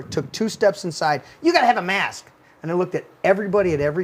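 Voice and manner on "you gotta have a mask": retold scream. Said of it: "she's screaming at me".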